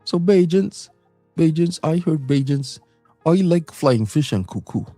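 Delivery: normal talking voice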